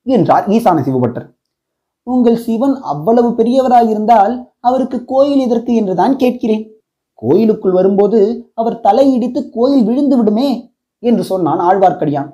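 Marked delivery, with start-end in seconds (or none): 2.1-10.5 higher, mocking poke at his brother's god; lightly voiced teasing younger brother; teasing jab. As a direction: needle the priest playfully. Brothers' teasing religious quarrel.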